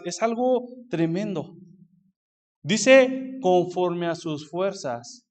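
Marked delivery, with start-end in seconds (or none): 3.4-5.2 "conforme a sus fuerzas" muy lento, palabra por palabra; recalcando la frase. Acted. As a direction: alarga y subraya "conforme". Recalca la frase del versículo. (frase recalcada muy despacio)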